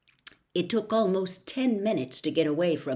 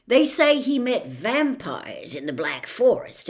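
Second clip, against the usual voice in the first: louder, big and homely; Hagrid gossiping; 5 dB louder than usual. Acted. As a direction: giant sharing a pitying tale. Hagrid explains Quirrell to Harry.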